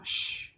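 isolated "Sh", pushed out loud; loud demonstrated "Sh"; ending SH released. Shown as a demonstration. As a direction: push out a strong "Sh" ending sound. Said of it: "Bật ending sound".

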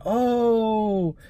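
long, high-pitched "oh"; imitated appreciative reaction. Passenger answers wish to speak Portuguese, imitated appreciation. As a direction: imitate a touched, drawn-out response.

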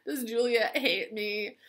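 mock sobbing Romeo.

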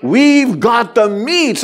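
drawn-out commercial tagline; Arby's ad line. Retold or imitated. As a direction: ham up the ad slogan. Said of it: "Is that an Arby's commercial?".

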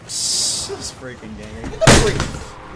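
strained yell. Real, not acted. Raging at game.

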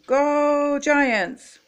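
high, stretched-out rallying cheer; team cheer. A narrator's reading. The Giants rally before the game, cheering. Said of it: "shouted the team".

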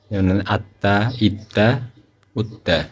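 slow, careful recitation with the doubled consonant held; doubled consonant drill. Shown as a demonstration. Teacher drills students on tashdid, slow and careful. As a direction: lean on the doubled consonant in আত্মা, ইত্তা, উত্তা. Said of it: "তাসদিদের অনেকগুলো উদাহরণ দিছে".

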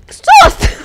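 very high, loud yelp of fright; startled shriek. Real, not acted. To her viewers, right after a jump scare, startled shriek. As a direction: yelp as if something jumped out at you.

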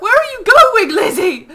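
high, loud shout after someone; loud, exasperated high-pitched call; alarmed calling out. Real, not acted. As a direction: yell after a friend running off. Calling after runaway game character.

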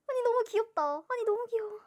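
high, loud cuteness overload; high-pitched fan delight; excited gushing. Real, not acted. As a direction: squeal over how cute it is. Gushing over cute card.

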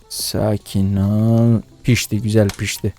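calming yourself. Real, not acted. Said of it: "Sakin olun".

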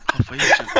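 sudden squeaky high-pitched cry of despair; frustrated squeal. Real, not acted. Streamer losing it over players, squealing high. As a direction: squeal it like you're losing your mind. Frustrated while hunting in game.

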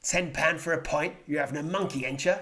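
put-on London Cockney; Cockney accent. Vlogger demonstrating a London dialect, Cockney accent. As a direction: do a Cockney punter balking. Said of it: "dialects like Cockney people who come from London".

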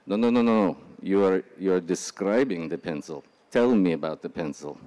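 imitation of an Israeli boss's accent. Boss correcting an interviewee, imitated Israeli accent. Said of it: "I'm gonna do my best Israeli accent".

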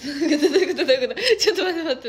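loud, laughing what-do-you-mean; laughing disbelief. Real, not acted. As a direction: crack up asking it over and over. Baffled by dialect word.

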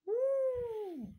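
high, loud woo; excited woo. Retold or imitated. Kid hears about the Black Widow movie, high whooping woo. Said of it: "so I'm like".

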